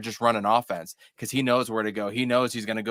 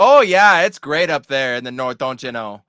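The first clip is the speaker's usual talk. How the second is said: put-on Minnesota accent; 3 semitones higher, 11 dB louder than usual. Joins the Minnesota accent bit.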